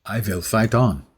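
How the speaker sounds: put-on Russian accent. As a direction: echo the game hero in mock Russian. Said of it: "the Russian accent's not going to get any better".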